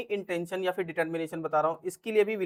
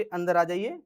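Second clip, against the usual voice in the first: polite invitation; slower than usual. Shown as a demonstration. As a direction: invite them in kindly. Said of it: "तमीज से बोल रहे हो".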